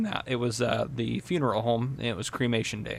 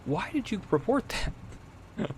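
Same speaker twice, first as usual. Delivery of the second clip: incredulous; 5 semitones higher, 6 dB quieter than usual. Retold or imitated. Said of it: "that I'm like".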